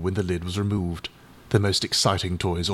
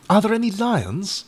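hopefully; 12 semitones higher, 3 dB louder than usual. A narrator's reading. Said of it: "asked Eric hopefully".

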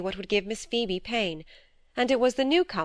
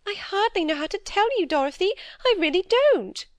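higher, fretful little-sister voice; timid younger sister; 12 semitones higher, 4 dB louder than usual. Acted. Phoebe fearfully confessing to her sister, higher anxious pleading. Phoebe hesitates, near tears.

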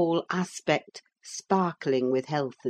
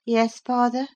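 put-on sickly young man voice; 8 semitones higher than usual. A narrator's reading. Linton's voice.

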